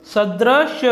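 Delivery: सदृश said slowly, ending sharply on "drish"; correct form. Shown as a demonstration. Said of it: "शुद्ध रूप इसका". (शुद्ध रूप सदृश, अंत में य नहीं)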